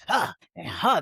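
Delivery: short puffed "huh" grunts; mock huffing between preached phrases; imitated preacher huffing. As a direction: imitate an old-school preacher's huffs. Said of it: "you was doing that old school preach".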